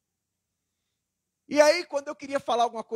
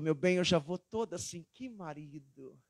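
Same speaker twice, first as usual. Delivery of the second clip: charmed wife; 6 semitones lower, 7 dB quieter than usual. Retold or imitated. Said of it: "Ela falou".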